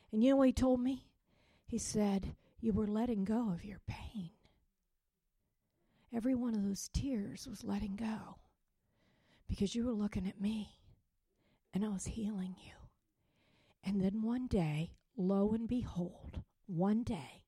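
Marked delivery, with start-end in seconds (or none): 2.6-12.7 hushed, tender voice of God; gentle divine reassurance. Retold or imitated. The Lord comforting her about her tears, gently. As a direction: console softly, letting breath through.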